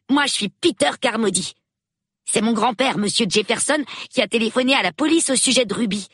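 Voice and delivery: put-on a nine-year-old thrilled to meet the police; excited little boy. A narrator's reading. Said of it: "Tout excité". (petit garçon tout excité, voix plus aiguë)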